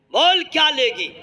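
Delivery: coaxing husband. Acted. Husband coaxing crying wife.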